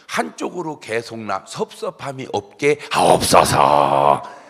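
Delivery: slow, swelling to a loud plea; fervent prayer. Retold or imitated. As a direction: end the prayer on a drawn-out, loud petition. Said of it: "기도를 해줘요". (기도를 길고 크게 끌어올려 맺기)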